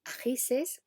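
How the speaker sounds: "ajises" with the extra -ses said clearly; popular plural. Shown as a demonstration. Teacher showing a popular plural form. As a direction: lift "ajises" as a quoted example. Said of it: "escuchar plurales del tipo".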